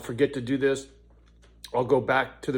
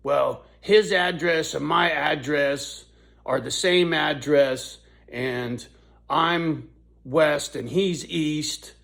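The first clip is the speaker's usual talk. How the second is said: imitating the lady; 3 semitones higher, 5 dB louder, slower than usual. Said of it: "She starts with this".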